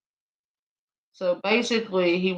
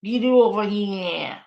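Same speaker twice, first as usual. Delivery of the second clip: lighter mock Boston repeat; a light Boston accent, laughing at it. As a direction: toss off "Get over here." in a lighter Boston accent. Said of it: "It's Boston".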